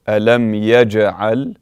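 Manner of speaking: يجعل with the jim clearly bounced; exaggerated qalqala. Shown as a demonstration. Teacher showing qalqala to the class. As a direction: make the jim echo slightly. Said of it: "slightly exaggerated so you can hear".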